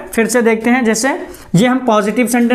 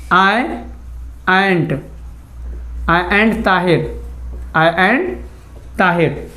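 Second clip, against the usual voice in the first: slow model sentence; 3 semitones lower, 4 dB quieter, much slower than usual. Shown as a demonstration. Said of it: "हम कैसे बोल सकते हैं?".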